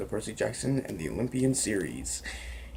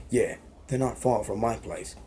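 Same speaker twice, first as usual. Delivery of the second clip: put-on a light British accent for Ron; easy British accent, casual tone. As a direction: read Ron's apology in a British accent. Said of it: "that's my British accent".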